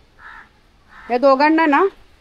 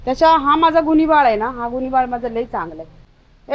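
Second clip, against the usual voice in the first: ordinary talk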